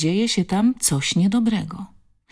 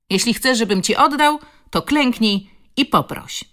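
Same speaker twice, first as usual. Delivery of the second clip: tag; 7 semitones higher, 5 dB louder than usual. A narrator's reading. Bully taunts the crying girl.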